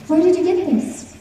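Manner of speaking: put-on old man's question jumps up high, eager; excited. A narrator's reading. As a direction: blurt it out in surprised delight. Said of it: "He becomes very excited".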